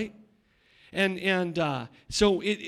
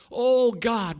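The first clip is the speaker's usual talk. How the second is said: crying out; 3 semitones higher, 5 dB louder than usual. Acted. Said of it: "be like Bartimaeus".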